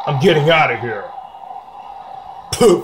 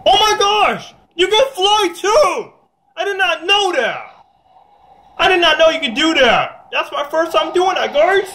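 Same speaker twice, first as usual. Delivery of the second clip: much higher, excited squeals of discovery; amazed; 10 semitones higher than usual. Real, not acted. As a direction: gush about flying, sky high. Discovers flying in the game.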